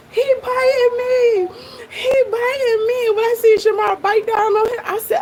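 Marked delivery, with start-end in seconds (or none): 0.1-3.1 lightly mimicked cry, higher and drawn out; mock his scream without full volume; imitated scream. Reactor recalls hearing that man start screaming, mild mock scream. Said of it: "heard that man start screaming".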